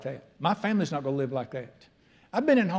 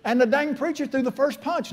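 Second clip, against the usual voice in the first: laughing; 9 semitones higher, 4 dB louder than usual. Real, not acted. Laughing at the memory.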